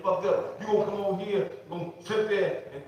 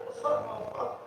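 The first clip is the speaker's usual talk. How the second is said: church whisper; 5 dB quieter than usual. Retold or imitated. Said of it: "We say it in church".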